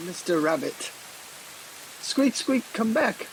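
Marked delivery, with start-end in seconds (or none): 2.0-3.3 mock bunny squeak. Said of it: "bunny speak".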